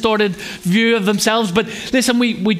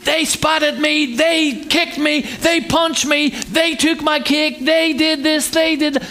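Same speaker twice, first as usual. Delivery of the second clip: put-on a child's higher, aggrieved tattling; animated child complaining; 5 semitones higher, slower than usual. Preacher imitating a child telling on a sibling, lightly aggrieved. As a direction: rattle off the sibling's crimes like an upset kid, slowing on each. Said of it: "they're very animated".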